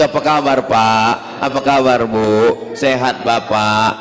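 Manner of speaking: respectful, unhurried hello; polite personal greeting. Shown as a demonstration. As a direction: greet each elder face to face, letting the endings fall. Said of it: "kita ajarkan begitu".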